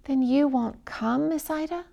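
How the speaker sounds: a touch of sorrow, slowed down; sorrowful. Acted. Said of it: "finally asked sorrowfully".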